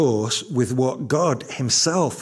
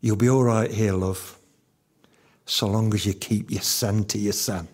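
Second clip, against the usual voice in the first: put-on Yorkshire accent; 4 semitones lower than usual. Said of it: "in her lovely Yorkshire accent".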